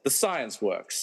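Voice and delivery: slow, deliberate deadpan. Acted. Narrator justifies the remote to the audience, slow deadpan. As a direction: state it slowly as settled fact.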